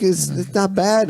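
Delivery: high, slow coach voice; slow, high reassurance. Retold or imitated. Coach calmly shrugging, high slow voice.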